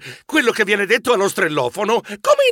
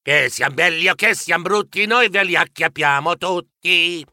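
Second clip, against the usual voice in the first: rhythmic rhyming slogan; presentation jingle. A narrator's reading. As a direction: recite the agency's catchphrase in rhythm. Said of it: "la sigla di presentazione".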